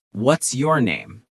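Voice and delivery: "What's your name?" slowly, rising slightly on "What's", falling on "name"; falling question intonation. Shown as a demonstration. Teacher shows learners how to ask "What's your name?", voice falling on "name". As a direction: let "name" drop at the end of "What's your name?". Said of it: "Listen to the intonation of my voice".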